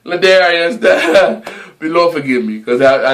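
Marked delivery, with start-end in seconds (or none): 0.0-1.8 giggling on the name; laughing. Real, not acted. Laughing while speaking.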